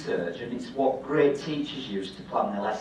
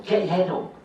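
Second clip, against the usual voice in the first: coach shout; 6 semitones higher, 6 dB louder than usual. Retold or imitated. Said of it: "sports coaches, don't they, go".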